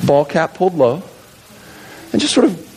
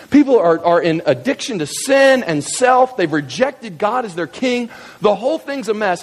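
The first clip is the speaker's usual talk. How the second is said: lightly voiced exasperated prophet, pitched higher; lamenting prophet; 6 semitones higher than usual. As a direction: plead a nation's case to heaven. Isaiah looking up, lamenting to heaven.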